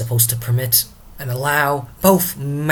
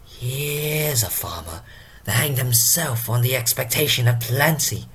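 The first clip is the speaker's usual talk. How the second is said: put-on Drunken Porter. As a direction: announce an imagined arrival like a tipsy gatekeeper. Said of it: "let us invite Drunken Porter himself".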